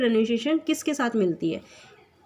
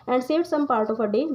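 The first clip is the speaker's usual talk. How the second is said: slow poem reading; much slower than usual. Shown as a demonstration. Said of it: "जो sad था अब अच्छा हो जाता है".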